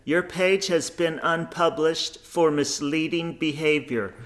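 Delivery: slow, soft, lightly squeaky mock liberal; a hint of a prissy scold, drawn out. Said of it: "squeaky little pussified liberals".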